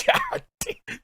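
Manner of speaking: very high, squeaky disbelieving exclaims; stunned. Real, not acted. Hearing the lyric, a squeaky stunned exclaim.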